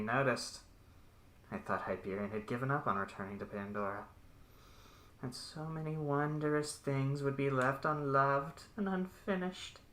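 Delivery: distorted sinister voice over an intercom; menacing villain savouring his work. Acted. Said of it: "you hear a very distorted, uh, sinister voice".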